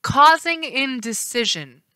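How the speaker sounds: slow, firm correction; the woman correcting Janus. Acted. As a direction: correct him firmly. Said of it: "the woman corrected".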